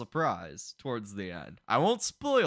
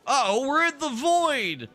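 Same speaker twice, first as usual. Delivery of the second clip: higher, louder mock alarm; playful uh-oh; 11 semitones higher, 5 dB louder than usual. Real, not acted. Player on a slide into the void, mock alarm. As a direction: tease the viewers with a mock worry.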